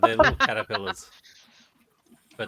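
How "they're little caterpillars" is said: high, fast, eager explaining; bursting to explain the bugs; excited. Real, not acted.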